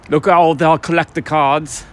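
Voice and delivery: badly faked Australian accent, slow; slow, half-successful Aussie accent imitation; a comedian's accent. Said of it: "I can't do his Australian accent".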